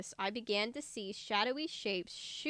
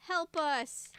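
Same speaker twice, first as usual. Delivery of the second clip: pleading shout; 6 semitones higher, 3 dB louder, slower than usual. A narrator's reading. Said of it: "Clay continued to plead at the top of his lungs".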